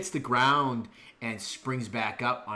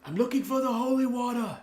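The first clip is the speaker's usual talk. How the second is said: high, lightly raised call over the shoulder; calling back, mild; 13 semitones higher, 5 dB louder than usual. Acted. Renard calling back over his shoulder, higher. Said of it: "He yells back over his shoulder".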